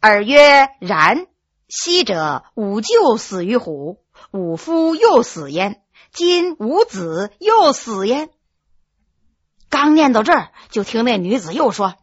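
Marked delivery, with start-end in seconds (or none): 0.0-8.3 slow, drawn-out schoolbook chant; reciting classical text. Acted. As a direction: recite it word by word like a scholar. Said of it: "又接着背".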